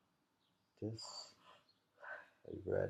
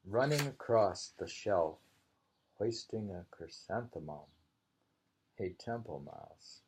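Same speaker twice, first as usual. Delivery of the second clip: louder opening, amused haiku reading; poem recital; 4 dB louder than usual. Acted. Reading the mouse haiku to a friend, amused recital. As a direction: read the mouse haiku with playful lift.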